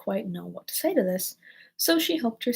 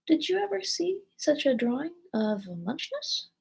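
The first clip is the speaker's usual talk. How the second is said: slow, higher storytelling creature; drowsy Dormouse; 4 semitones higher, slower than usual. Acted. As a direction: ramble on slowly as a dozy dormouse. Narrator voices the drowsy Dormouse.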